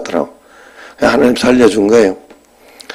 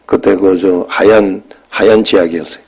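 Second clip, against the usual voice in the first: fighting back real tears; choking up; 4 semitones lower, 3 dB quieter than usual. Real, not acted. Recalling swallowing toothpaste as child.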